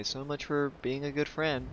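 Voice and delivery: dry sarcastic jab; sulky sarcasm at the NPC. Real, not acted. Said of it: "said twice, second muttered".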